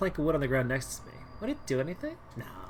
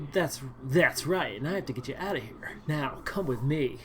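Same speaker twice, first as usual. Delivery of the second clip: Leon voice. Acted. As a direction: order her along calmly. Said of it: "that's what he sounds like".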